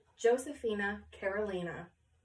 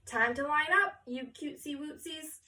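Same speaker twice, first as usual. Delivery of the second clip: cutesy photographer; 4 semitones higher than usual. Acted. Photographer speaks to children.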